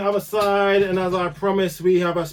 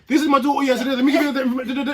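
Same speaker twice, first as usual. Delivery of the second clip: higher, louder proud mum voice; pushy proud mum; 7 semitones higher, 3 dB louder, faster than usual. Retold or imitated. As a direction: sell your daughter to everyone. Retells the mum's pushy pitch.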